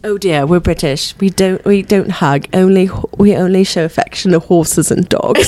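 prim, put-on British voice; mock British accent. Brit explaining they don't hug, mock British accent. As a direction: play a reserved Brit, hammed-up British accent. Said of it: "she's very British".

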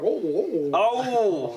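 mock motherly moan; lightly voiced mom, drawn-out oh; imitating a mom. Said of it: "she sounds more like".

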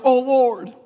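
earnest, building prayer; mother on her knees praying for her son; mother's prayer. Retold or imitated. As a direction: pray it, rising with each Lord. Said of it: "she was praying something like this".

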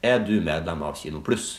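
slow, careful cashier question. Shown as a demonstration. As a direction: ask it slowly and clearly, like at the till. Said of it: "så roer jeg ned tempoet på det jeg sier". (langsomt og tydelig kassespørsmål)

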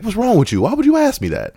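dying patient squealing in offended surprise; offended outrage. Retold or imitated. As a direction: play wounded indignation.

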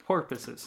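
"purposes" with an OR vowel up front; said as porpoises. Shown as a demonstration. Co-host garbling a stock phrase, "purposes" said as porpoises. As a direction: make "purposes" sound like porpoises. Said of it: "Porpoises, there we go".

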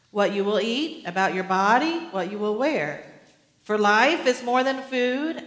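measured, earnest reading of scripture; preacher reading the passage to his church, solemn and measured. Acted. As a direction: read the gospel aloud to the congregation. Reads scripture passage aloud.

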